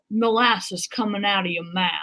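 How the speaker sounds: put-on amateur Savannah Southern accent. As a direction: attempt a molasses-smooth Savannah accent. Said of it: "he talks in a Savannah accent".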